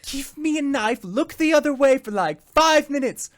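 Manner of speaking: high whispered aside, then voiced; conspiratorial whisper. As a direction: hush it like a secret deal. Shopkeeper privately asks to kill.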